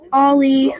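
put-on loud call for a lost child. Sibling calling for missing Ollie, loud. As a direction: shout his name across the park.

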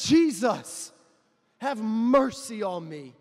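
loud slow plea; crying out. Acted. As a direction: call out, drawing out mercy. Bartimaeus calling out.

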